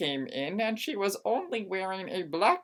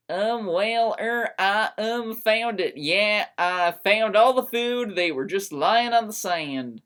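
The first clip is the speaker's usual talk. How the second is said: nervous lie; 3 semitones higher, 5 dB louder than usual. Acted. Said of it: "I lied again".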